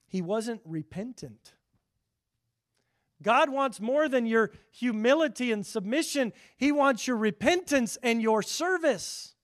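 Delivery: ordinary delivery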